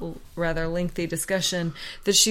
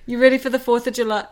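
Canadian accent; 4 semitones higher, 4 dB louder, faster than usual. Shown as a demonstration. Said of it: "How do you say that with a Canadian accent".

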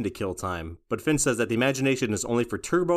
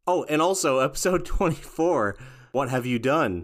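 laughing; 3 semitones higher than usual. Real, not acted. Laughs while naming episode.

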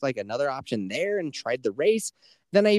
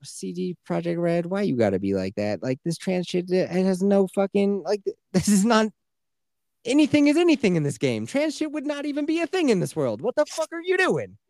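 incredulous, climbing ever higher in pitch; exasperated rant; 6 semitones higher than usual. Acted. Player scolds the game developer over a storyline, exasperated. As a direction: build from complaint to high-pitched disbelief.

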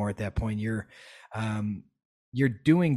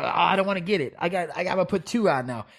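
higher whiny mock-fearful voice; mock a timid mask wearer; mocking scared people; 5 semitones higher, faster than usual. Mocking people who double-mask, high mock-fearful whine. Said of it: "these people are".

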